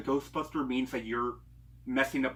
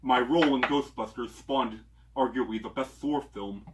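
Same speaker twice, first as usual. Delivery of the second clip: Chris Hemsworth voice; 4 dB louder than usual. Retold or imitated. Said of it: "That's my attempt at Chris Hemsworth voice".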